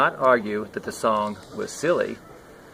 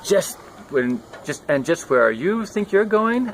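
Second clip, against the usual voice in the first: high, louder demanding cat voice; suspicious cat; 7 semitones higher, 3 dB louder than usual. Acted. Cat catching the sneaking rat, high and demanding. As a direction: pounce on him with the question. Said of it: "asked the cat, suddenly jumping down".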